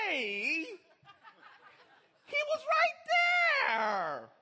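high, slow, stretched indignant shout; indignant yell. Retold or imitated. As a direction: protest like a cheated dad. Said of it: "the dad in me was like".

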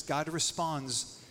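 slow, every phrase weighted; slowed-down emphatic preaching; dramatic slow build. Acted. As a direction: hold back, then land on grace. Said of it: "now catch this".

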